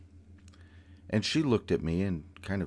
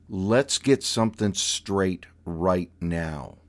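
stern aunt voice; 3 dB louder, slower than usual. Retold or imitated. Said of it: "probably dropped a couple octaves".

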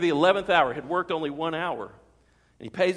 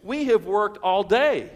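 louder, slow, aggrieved; indignant complaint; 2 semitones higher, 6 dB louder, slower than usual. Acted. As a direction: protest like a resentful laborer. Grumbling workers complain.

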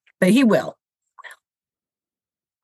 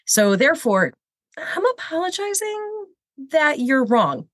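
mock condescending apology; 5 semitones higher than usual. Shown as a demonstration.

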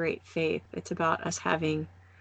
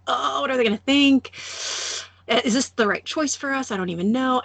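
a touch of anxious fretting, pitched up; retold mild panic; 5 semitones higher than usual. Newcomer before meeting the elders, mildly panicked fretting. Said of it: "and I was scared".

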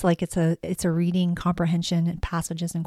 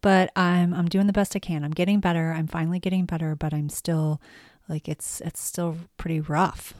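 hoarse voice from being sick; raspy voice. Real, not acted. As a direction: speak through a rough throat. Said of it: "excuse my raspy voice".

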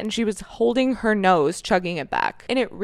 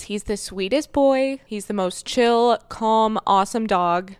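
puppy voice; slower than usual. Real, not acted. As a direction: coo over the puppy like a dog mom. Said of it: "I'm already in full dog mom puppy voice mode".

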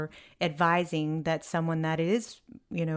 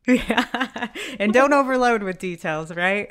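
laughing; 4 semitones higher, 7 dB louder than usual. Real, not acted. Laughing agreement with co-host.

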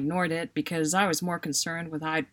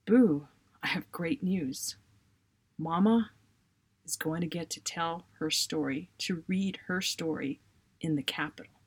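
calm, pleasant. Retold or imitated. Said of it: "in a calm, pleasant voice".

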